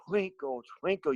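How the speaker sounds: voiced, supported demo; air pushed through. Shown as a demonstration. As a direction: push breath through each word. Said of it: "You have to push air through".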